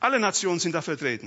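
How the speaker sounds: emphatic, stressed alle, rest rattled off fast.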